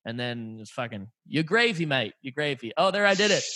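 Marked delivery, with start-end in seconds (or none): 1.3-2.7 lightly mocked English accent; playful imitation of an English accent; put-on English accent. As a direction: throw it in as casual English slang accent. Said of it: "fucking English thing that you talked about".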